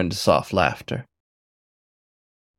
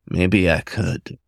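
slow teasing demon; much slower than usual. A narrator's reading. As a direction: draw it out, teasing.

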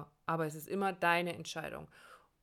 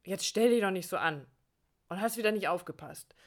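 a mild scolding tone at oneself, a bit louder; mock self-scolding; 5 dB louder than usual. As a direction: tell yourself off like a nagging parent. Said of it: "wo man mit sich selbst schimpft". (leicht gespieltes Selbstschimpfen)

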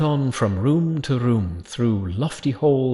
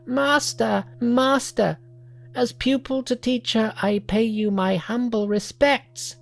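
murmuring monkey; 10 semitones higher than usual. Acted.

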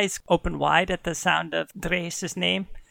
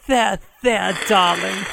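cooing; 4 dB louder than usual. Acted. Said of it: "starts petting him and saying".

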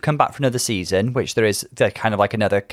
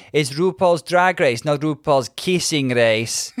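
Jara/public; 4 semitones higher, slower than usual. Retold or imitated. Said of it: "Sorry about the offensive accent".

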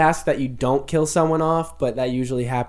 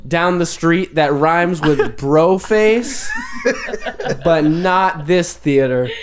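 louder, laughing prim manager voice; mock stern theater manager; 3 semitones higher, 3 dB louder than usual. Manager throwing Max out of the theater, laughing mock stern. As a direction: throw him out with fake politeness. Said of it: "he turns to Max and he says".

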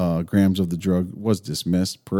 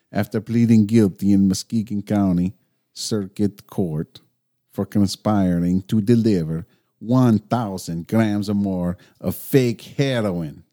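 put-on Mexican accent; 3 dB louder than usual. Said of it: "What is that accent?".

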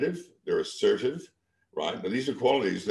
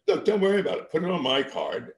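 insistent reassurance; 11 semitones higher, 3 dB louder than usual. Retold or imitated. Insisting he pay for the wine.

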